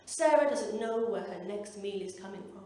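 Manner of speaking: low, slow appeal voice; mock solemn charity-ad read; charity advert voiceover. Voiceover appealing for a needy child, mock solemn. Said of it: "jealous of the little children on the N S P C C adverts".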